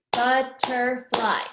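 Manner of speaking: BUTTERFLY in three loud, slow beats; syllable by syllable. Shown as a demonstration. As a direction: clap out BUT, TER, FLY in BUTTERFLY. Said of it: "it does have three".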